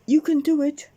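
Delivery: high, loud encouraging shout. Acted. Mister Bump shouting up to Miss Brave on the rocks. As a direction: yell up the rock face. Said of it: "shouted Mister Bump".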